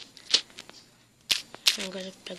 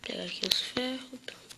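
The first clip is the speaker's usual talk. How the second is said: whisper; 3 semitones higher, 3 dB quieter than usual. Real, not acted. Muttering to himself while playing.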